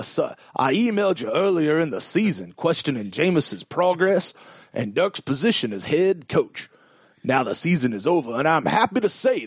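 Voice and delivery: cartoon-style southern drawl throughout. After another speaker asks to hear it, doing a Foghorn Leghorn accent. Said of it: "in like a like a foghorn leghorn accent".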